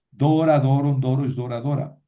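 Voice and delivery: Dora, doron, dora stressed on DO; rhythmic drill hitting the DO of Dora; stress on first syllable. Shown as a demonstration. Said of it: "No se mueve el acento".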